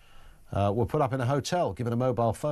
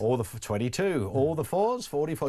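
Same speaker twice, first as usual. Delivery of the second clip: bingo caller; 3 semitones higher than usual. Shown as a demonstration. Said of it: "I could call bingo".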